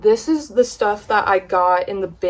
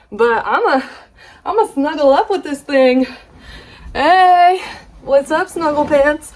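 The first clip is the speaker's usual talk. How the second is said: put-on high, loud baby talk to a blanket; high cooing greeting to Snuggle Pants; cutesy voice; 6 semitones higher, 5 dB louder than usual. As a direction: coo to the blanket like a pet. Talks to blanket cutely.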